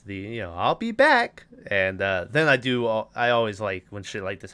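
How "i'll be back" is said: high, menacing doll voice; a quick mock Chucky threat. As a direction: squeal it like a killer doll. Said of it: "Chucky says in the Chucky voice".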